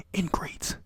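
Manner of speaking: a touch of irritation, half voiced out of the whisper; mock-annoyed "Ingrates" as the irritated character. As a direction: spit the word "Ingrates" out with mild scorn. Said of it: "or she's irritated".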